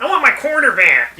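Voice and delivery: mock-annoyed character voice. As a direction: demand it back in a mock huff. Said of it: "That guy was so annoyed too".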